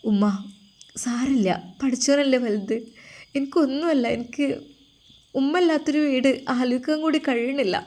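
a lightly voiced daughter, pleading and tearful.

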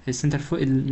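"السنتر فوق ال-" broken off, unable to finish the word; stumbling pronunciation. Real, not acted. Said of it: "مش عارف انطقها يعني".

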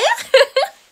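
high loud burst of laughter. Real, not acted. Streamer cracking up over her own impression. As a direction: crack up fully.

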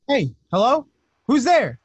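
high, loud challenge; calling out. Acted. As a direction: call out to whoever is hidden. Calling out to unseen person.

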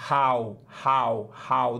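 "how" repeated with a breathy, Portuguese R-like H; aspirated H. Shown as a demonstration. Teacher isolating the H sound in "how", breathy. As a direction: drill the breathy start of "how". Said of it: "Um som de R".

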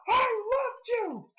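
high, wailing, slowed sob-shout; Heyman's crying scream. Retold or imitated. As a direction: wail it like a heartbroken manager. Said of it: "he was like".

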